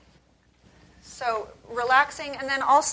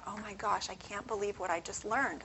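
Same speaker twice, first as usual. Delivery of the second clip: ordinary delivery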